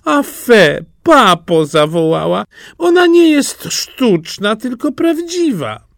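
high, whiny princess crying out; near tears. A narrator's reading. Princess disappointed by a real rose, near tears. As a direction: complain to papa in a very high, tearful voice. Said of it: "już była bliska płaczu".

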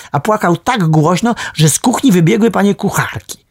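usual speaking voice

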